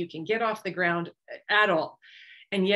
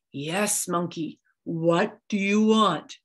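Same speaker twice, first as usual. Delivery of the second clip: slow, lightly lowered voice of a god; a hint of a booming deity; 3 semitones lower, much slower than usual. A narrator's reading. Papa God answering Monkey, slow and lightly booming. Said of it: "a big booming voice answered him".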